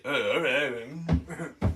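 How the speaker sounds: very slow, slurred mock mumble; dragged-out impression of a meek hero; Stallone. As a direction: give in like a dopey movie tough guy. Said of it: "Stallone's like".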